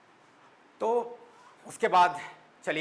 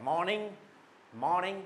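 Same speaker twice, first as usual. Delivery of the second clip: higher, lifted "मॉर्निंग"; stylish morning greeting; 4 semitones higher than usual. Shown as a demonstration. Teacher showing another greeting style, a lifted "मॉर्निंग". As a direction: raise the pitch on "मॉर्निंग". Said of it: "ये एक style है".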